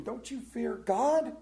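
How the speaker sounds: slow, high, loud rebuke. Acted. Preacher voicing the criminal rebuking the other, stern. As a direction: scold the other criminal sharply. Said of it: "rebuked him".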